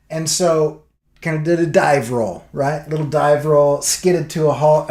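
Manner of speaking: ordinary talk, nothing marked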